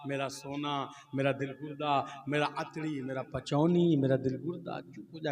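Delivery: low, crooned string of endearments; mock soothing. Cleric hushes his crying son, mock tender. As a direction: hush the baby with lightly hammed-up fondness. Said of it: "लेकर के चुप करा रहा".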